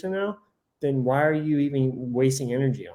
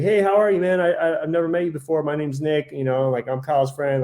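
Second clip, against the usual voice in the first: friendly introduction; 2 semitones higher than usual. Retold or imitated. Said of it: "not willing to go up and be like".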